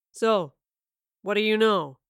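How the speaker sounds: sly menacing villain. A narrator's reading. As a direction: voice him smug and dangerous. Villain Wayland speaks.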